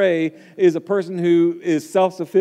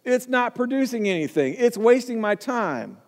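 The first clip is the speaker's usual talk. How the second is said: higher, a hint of an impatient owner ordering; stern decree; 5 semitones higher than usual. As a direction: hand down the verdict. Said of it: "here's the decree".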